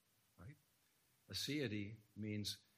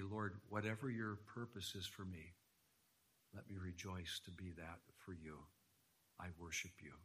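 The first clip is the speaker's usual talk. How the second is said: softer, lower prayer voice; submissive prayer; 3 semitones lower, 5 dB quieter than usual. Acted. Preacher modelling our response to the Lord, submissive prayer. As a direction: offer it up quietly and humbly.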